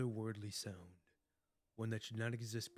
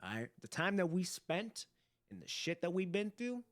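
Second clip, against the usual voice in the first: emotional; 8 dB louder than usual. Real, not acted. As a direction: pour your heart out. Voicing heartfelt reply to character.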